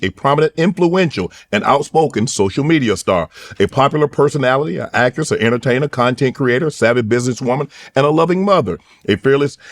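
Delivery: emphatic host introducing a guest; show introduction. Acted. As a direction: build up the guest like an announcer, phrase by phrase.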